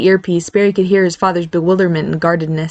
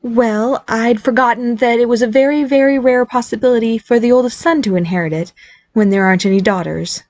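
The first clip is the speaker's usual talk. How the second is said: a hint of caution in the higher mother's voice; cautious mother; 5 semitones higher than usual. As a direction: tread carefully, mother on the phone. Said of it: "Daniel was continuing cautiously".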